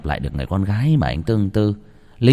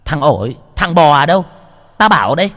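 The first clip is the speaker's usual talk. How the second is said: higher, louder call to the servants; shouted summons; 6 semitones higher, 6 dB louder than usual. A narrator's reading. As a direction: bark for the servants across the house. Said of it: "ả ra lệnh". (cô chủ gọi to ra lệnh)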